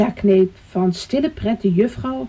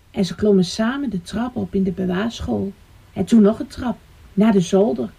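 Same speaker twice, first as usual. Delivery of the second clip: put-on measured storytelling for small children; story narration. A narrator's reading. Storyteller leads children up to the attic, story narration. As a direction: tell it to little listeners, phrase by phrase.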